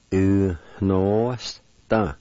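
"u, no, sta" drawn out in separate syllables; syllable-by-syllable demo. Shown as a demonstration. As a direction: sound out "u, no, sta" piece by piece. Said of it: "Third part".

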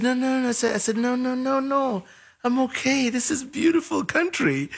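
high reassurance. Retold or imitated. Reassuring friends he's fine.

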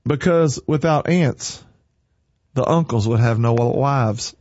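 slow, calm punchline delivery; unhurried calm answer; calm reply. Retold or imitated. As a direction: say it calmly, deadpan, to land the joke. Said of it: "the boy calmly replied".

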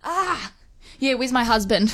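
laughing, crying shout in pretend labor; mock labor cry. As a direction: play the woman mid-labor. Pretend labor at max setting.

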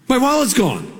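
a jolt of panic as the wallet is missing; panicked realization. Retold or imitated.

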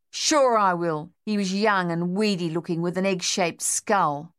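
tense, insistent demand; fixated on revenge; vengeful soldier. Acted.

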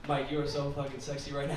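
soft mock-seductive murmur in the ear; sweet nothings. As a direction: murmur it softly, hammy seduction. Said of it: "whisper sweet nothings into the recipient's ear".

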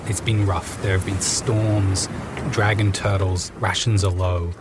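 calm storytelling scene-setting voice; game master narration. Acted. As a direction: set the scene for the players.

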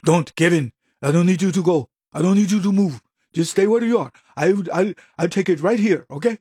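mock Indian accent. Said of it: "I didn't want to just do the Indian accent".

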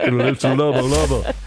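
a light, loose Shaggy cartoon voice; a hint of Shaggy; Shaggy impression. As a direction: slide into a goofy Shaggy voice. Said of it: "then you turn into Shaggy".

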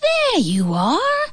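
high, slow relieved voice; relieved mother. A narrator's reading. Mother greets her son, relieved. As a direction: sigh out your relief.

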